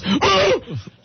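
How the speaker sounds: strained gasping groan; groaning grunt. Retold or imitated. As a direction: let out a pained grunt. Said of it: "he lets out this groaning grunt".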